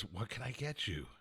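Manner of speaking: soft, low, gentle offer to help; friendly server. Retold or imitated. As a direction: quietly imitate a sweet, welcoming server. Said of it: "happy to see me, like we were friends".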